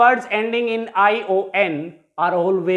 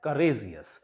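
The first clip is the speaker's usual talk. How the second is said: courageous with RA stressed and lengthened; courageous, stretched on its second-last syllable; stress on penultimate syllable; 8 semitones lower, 10 dB quieter than usual. Shown as a demonstration. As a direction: lean on the RA in courageous. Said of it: "It will be pronounced as".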